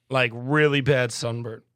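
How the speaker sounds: talking through a burp; slow words pushed out around a burp. Real, not acted. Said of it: "Sorry, I'm talking through a burp again".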